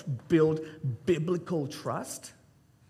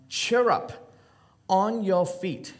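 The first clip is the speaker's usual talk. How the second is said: encouraging call; 5 semitones higher, much slower than usual. Retold or imitated. Crowd calling to the blind man.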